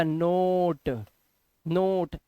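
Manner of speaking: "नोट" stretched out, starting on N; slow teaching "नोट" with silent K; model reading of knot. Shown as a demonstration. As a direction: draw out the vowel in "नोट", no K. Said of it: "ऐसे पढ़ना है आपको".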